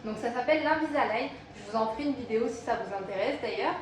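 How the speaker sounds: slight lisp from dental aligners; lisping on the s sounds. Real, not acted. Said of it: "si vous trouvez que je zozote un petit peu".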